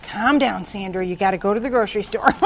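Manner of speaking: laughing while telling herself to calm down; amused self-scolding, quick and giggly; self-talk, laughing. Retold or imitated. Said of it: "I was just like".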